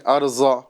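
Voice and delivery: ارضا with the ض turned into a z-like sound; ارضا as a learner's slip, buzzing za for ض; mispronounced ارضا. Shown as a demonstration. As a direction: say ارضا wrongly, ض as a plain za. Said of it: "واد کو وا کی طرح ادا کریں".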